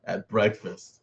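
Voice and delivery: slow, drawn-out ominous title read; mock somber. Streamer pitching a show name to viewers, mock somber. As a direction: announce it like a grim show title, slowly. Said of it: "that sounds a little somber".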